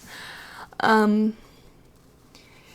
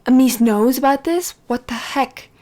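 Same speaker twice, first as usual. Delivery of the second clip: angry. Retold or imitated. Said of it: "he was so mad".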